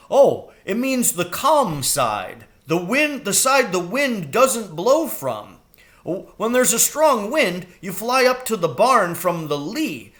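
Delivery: high, quick crow voice; eager young crow. A narrator's reading. Jeremy the crow urging Mrs Frisby home, high and anxious.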